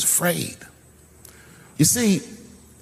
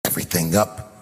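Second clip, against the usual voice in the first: yelling at producers. Retold or imitated. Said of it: "I started yelling at all the producers".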